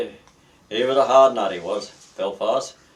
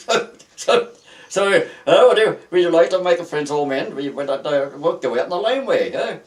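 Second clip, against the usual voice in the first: higher, louder cocky dare to step outside; mock fight challenge; 7 semitones higher, 6 dB louder than usual. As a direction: play the copper goading him out to the laneway. Copper inviting a fight outside.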